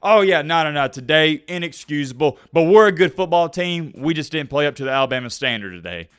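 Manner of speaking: firm, assured press conference answer; confident. Shown as a demonstration. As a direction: model a confident coach facing the media. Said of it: "say something confident like this".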